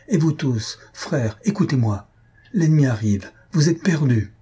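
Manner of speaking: urgent cry. Acted. Young man warns the congregation, crying out urgently. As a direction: call out the danger, voice climbing. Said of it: "s'écria-t-il".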